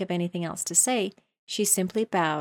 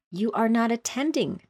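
stern, raised scolding; severe; 5 semitones higher, 4 dB louder than usual. Acted. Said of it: "said the mouse to Alice severely".

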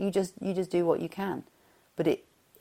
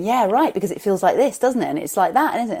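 higher, louder presumptuous agreeing; mock over-eager agreement; 4 semitones higher, 6 dB louder, faster than usual. Speaker imitating herself assuming another's feelings, over-eager. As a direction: jump in as if you already know.

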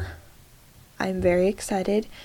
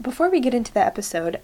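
fast recorded-message read; automated message voice; 3 semitones higher, faster than usual. Real, not acted. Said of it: "I sounded like a automated message".

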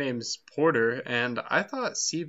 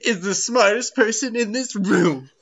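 sarcastic praise; 7 semitones higher, 8 dB louder than usual. Acted. Mock praise of a co-host.

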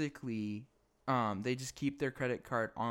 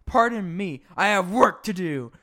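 higher, louder, fast stiff brush-off; curt Eugene; 8 semitones higher, 10 dB louder than usual. Retold or imitated. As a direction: rattle it off stiffly to end the talk. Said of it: "Eugene's like".

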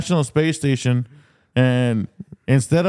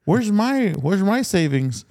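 put-on old man voice; 5 semitones higher, slower than usual. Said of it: "He's like".

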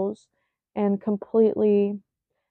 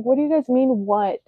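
angry; 3 semitones higher, 4 dB louder than usual. Retold or imitated. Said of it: "I was getting angry".

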